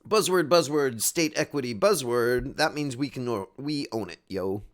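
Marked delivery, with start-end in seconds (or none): 0.1-2.6 loud dismissive buzzword chant; mock the dialogue's buzzwords; mocking jargon. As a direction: sneer at the corporate jargon. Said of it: "mocking jargon".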